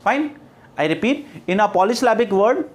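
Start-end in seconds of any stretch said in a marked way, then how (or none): 1.5-2.6 slow, spaced-out dictation reading. Real, not acted. Teacher dictates a definition to students, slow dictation. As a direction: dictate word by word with long pauses.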